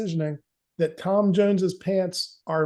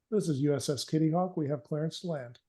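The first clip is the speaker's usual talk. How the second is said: official Navy voice; 3 semitones lower, 6 dB quieter than usual. Acted. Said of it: "very official sounding Navy person say".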